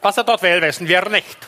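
lightly voiced Wochenschau narrator; newsreel announcer. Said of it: "so wie in der Wochenschau".

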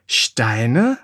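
puzzled rising question; lightly surprised, as if peering into the sack; mild wonder at finding stones. Acted. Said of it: "wunderte sie sich".

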